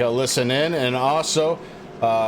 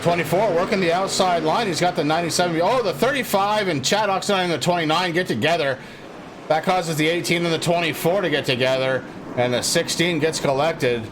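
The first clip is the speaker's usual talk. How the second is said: excited play-by-play; 4 semitones higher than usual. Real, not acted. Commentator calls a crash live.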